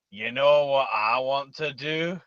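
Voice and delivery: loud leering mock voice; creepy Fat Bastard voice. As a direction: ham up a lecherous villain. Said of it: "he's just going".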